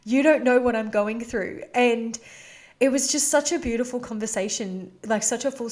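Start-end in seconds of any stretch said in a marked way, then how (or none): 0.0-1.6 frustrated quote. Retold or imitated. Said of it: "frustrated and resentful".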